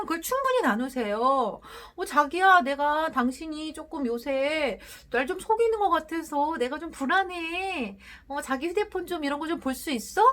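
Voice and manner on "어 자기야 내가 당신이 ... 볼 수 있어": gentle, candid request to a spouse, a bit higher; honest sincere asking. Shown as a demonstration. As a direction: ask openly and kindly, voice lifted. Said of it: "라고 정직하게 말하고 보세요".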